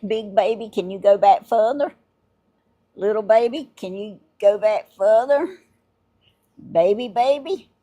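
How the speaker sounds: calling to toy pigs. Real, not acted.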